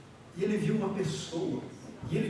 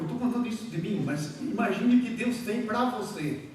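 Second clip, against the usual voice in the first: ordinary talk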